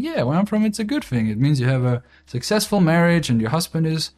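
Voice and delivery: a lightly voiced earnest girlfriend; imitating girlfriend. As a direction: boyfriend mimics his girlfriend defending housewives. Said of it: "And she's like".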